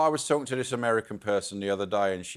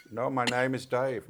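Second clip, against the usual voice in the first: mock Indian accent; 3 dB quieter than usual. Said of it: "you can't do the accent".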